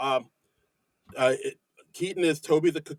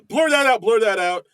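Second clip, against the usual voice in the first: loud, high-pitched mock panic; imitated freak-out; 7 semitones higher, 7 dB louder than usual. Retelling Mikey Day freaking out on air, in mock panic. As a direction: urgently call it out as if freaking out. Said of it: "They'll bl-, freak out".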